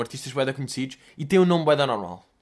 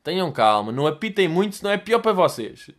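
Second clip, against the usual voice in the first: smug calm driver. Retold or imitated. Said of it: "com aquela atitude".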